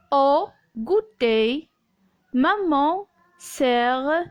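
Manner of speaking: slow, segmented reading for learners; lecture aloud. Shown as a demonstration. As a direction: read slowly in small word groups, pausing between them. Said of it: "je vais continuer à lire". (lecture lente, découpée par groupes de mots)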